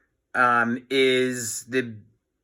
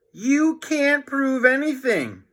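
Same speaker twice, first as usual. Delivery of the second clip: put-on much higher, slow boy's protest; indignant kid pleading innocence; George, boy voice; 13 semitones higher than usual. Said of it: "cried George".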